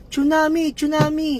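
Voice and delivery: high, loud retold yell of tsunami; sumisigaw na nanay. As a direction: shout it like a panicked mother. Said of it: "sinisigaw ng nanay". (sigaw ng nanay na takot)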